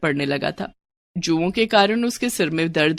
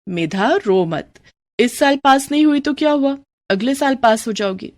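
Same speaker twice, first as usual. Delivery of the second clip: consoling; 5 semitones higher than usual. Acted. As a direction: comfort a crying pupil. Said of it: "समझाते हुए कहा".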